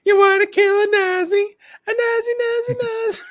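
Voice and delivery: high excited yelling dad. Retold or imitated. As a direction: rile up a kid like a hyped dad. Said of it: "he's gonna be like".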